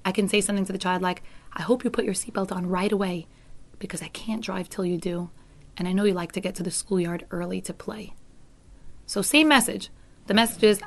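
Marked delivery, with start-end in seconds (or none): 1.5-8.1 softer, gentle encouragement; loving you tone. Shown as a demonstration. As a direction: coax the child kindly. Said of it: "coming from a loving place".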